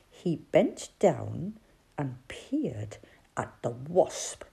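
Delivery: whispered, creeping up on the wasp; hushed narration. A narrator's reading. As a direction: breathe the words as if not to wake it.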